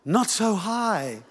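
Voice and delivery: slow, softly drawn-out mother's warning; mock motherly caution. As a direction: imitate a careful mum, stretching the words. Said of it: "while mother says".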